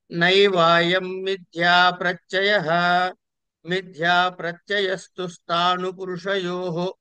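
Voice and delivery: steady sing-song reading, last phrase drawn out; Sanskrit text recitation. Real, not acted. Teacher reading the page's last sentence, measured recitation. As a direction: read the commentary line evenly, stretching the endings.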